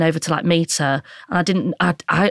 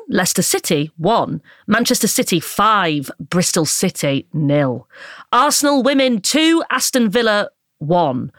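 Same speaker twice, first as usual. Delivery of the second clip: posh broadcaster voice. Pretend. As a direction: read the scores like a posh presenter. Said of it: "in a posh sort of broadcaster voice".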